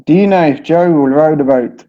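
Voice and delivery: British O's in Joe, row and boat; British accent. Shown as a demonstration. British teacher reading the sentence on request. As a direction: read it with British vowels. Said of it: "how would you say that?".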